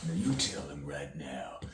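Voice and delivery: hissed, urgent whispered order; acted whisper. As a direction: whisper the threat through the teeth. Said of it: "Pretend you're acting in the scene".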